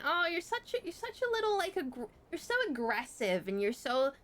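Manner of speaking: high, sing-song taunting; mocking Yappy. Mimicking the tutor calling her aggressive, in a high mocking voice. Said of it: "she'd be like".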